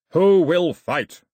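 loud, high, drawn-out challenge; slow yell. A narrator's reading. Milo repeats his challenge to the raiders, long slow yell. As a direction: stretch out each word as you yell. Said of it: "he yelled".

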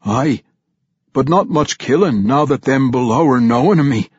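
loud, high gruff dwarf brogue; vampire dwarf answering his king. Acted. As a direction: growl it out like a half-mad undead dwarf. Pwent the vampire dwarf speaks.

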